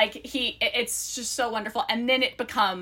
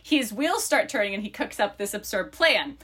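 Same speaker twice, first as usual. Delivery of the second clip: lively book-blurb read-aloud. Acted. Co-host reads friends the book blurb, lively read-aloud.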